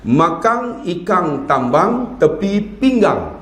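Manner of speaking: Terengganu dialect. Retold or imitated. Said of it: "qiraat apa?".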